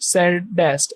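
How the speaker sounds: "सैडेस्ट" split as सैड, then डेस्ट; two syllables. Shown as a demonstration. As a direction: break "सैडेस्ट" into two clear beats. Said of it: "ऐसे दो syllable होंगे". ("सैडेस्ट" दो syllable में: सैड - डेस्ट)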